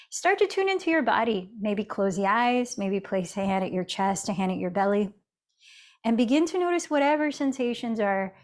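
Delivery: guided meditation with long pauses between cues; unhurried yoga teacher, leaving space after each instruction. Real, not acted. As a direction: ease them gently into noticing the breath.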